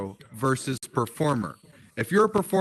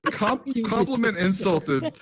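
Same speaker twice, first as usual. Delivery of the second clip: laughing; 5 semitones higher than usual. Real, not acted. Laughing recounting the insult.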